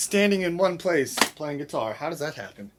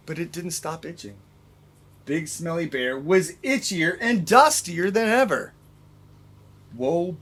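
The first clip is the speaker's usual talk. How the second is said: gentle, expressive read-aloud; story reading. A narrator's reading. Teacher reads Big Smelly Bear to the class.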